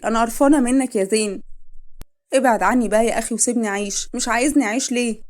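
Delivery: loud, high, disgusted yelling; disgusted fury. Acted. Wife screaming her disgust at her husband for another woman. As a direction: spit it out in revulsion.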